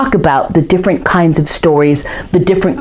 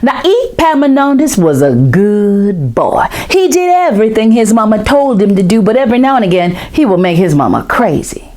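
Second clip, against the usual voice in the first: story narration; 3 semitones higher than usual. A narrator's reading. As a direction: tell it like a folk tale to a circle of children. Storyteller begins the tale.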